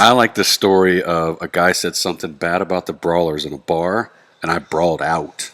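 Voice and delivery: blocked nose after surgery; stuffy nose. Real, not acted. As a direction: speak through a blocked nose. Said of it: "sounds a little stuffy and kinda weird".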